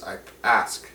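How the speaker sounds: a soft, low plea from an orc elder to strangers; orc man pleading. Acted. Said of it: "he turns to you and says".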